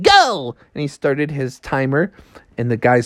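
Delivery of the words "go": high-pitched start signal; starting call. Acted. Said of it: "he said".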